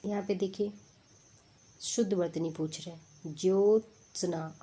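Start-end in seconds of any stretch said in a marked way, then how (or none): 3.3-4.6 ज्योत्सना spoken slowly with each cluster clear; teacher spelling ज्योत्सना out; slow careful word. Shown as a demonstration. Teacher explaining conjuncts, dictating ज्योत्सना slowly. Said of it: "आदि त, आदि श न".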